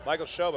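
"Schob" with a long o, like shobe; corrected name. Real, not acted. Commentator repeats the setter's corrected name, long o. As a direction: say "Michael Schob", o as in robe. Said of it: "emphasis on the wrong syllable there".

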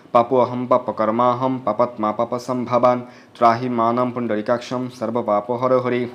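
slow, measured Sanskrit prayer recitation; mantra recitation. Acted. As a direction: intone the mantra steadily, like a priest at the river.

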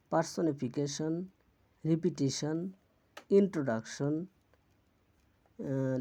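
each word enunciated alone, ending in shon; "-shon" ending demo. Shown as a demonstration. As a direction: model ন্যাশন and প্যাশন with a clear shon ending. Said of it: "এর উচ্চারণ হয় শন".

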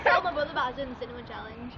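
words pushed through full cheeks; mouth full. Real, not acted. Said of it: "She's a hamster".

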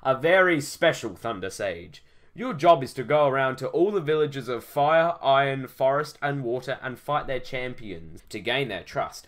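lightly voiced solemn old sage, declaiming. Old sage giving Mike his quest, portentous. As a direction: deliver a grand quest with sudden booming emphasis.

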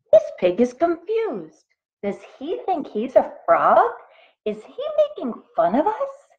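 high-pitched, put-on frog voices in disbelief; frogs crying out. A narrator's reading. Frogs puzzle over the ribbiting pig, high and baffled. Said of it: "cried the frogs".

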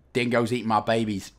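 low, badly faked Aussie accent; crappy Australian accent. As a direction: do a terrible mock Australian. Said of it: "crappiest Australian accent in the world".

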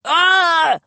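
high strangled cry; choked gag. A narrator's reading. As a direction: gag as if being squeezed. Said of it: "I gagged".

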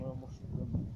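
talking while chewing gum; words round a chewing gum. Real, not acted. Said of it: "je sais pas parler avec un chewing-gum".

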